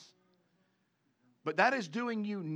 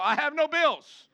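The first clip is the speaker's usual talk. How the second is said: mock insistent denial; 8 semitones higher, 6 dB louder, slower than usual. Mock denial to bill collector.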